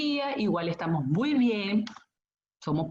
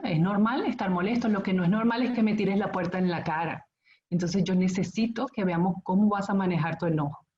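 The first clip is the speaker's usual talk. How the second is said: firm but kind, steady; firme y amable. Shown as a demonstration. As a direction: set the limit kindly and firmly. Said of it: "Y lo digo así, firme y amable". (madre a su adolescente, firme y amable)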